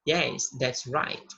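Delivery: slow, clear English confirmation; slow model reply. Shown as a demonstration. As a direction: say it slowly so learners can copy. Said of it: "Sim, tá certo". (resposta modelo bem devagar)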